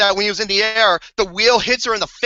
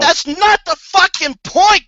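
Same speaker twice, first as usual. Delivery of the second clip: irritated retort; 7 semitones higher, 4 dB louder than usual. Real, not acted. Snapping back at friend.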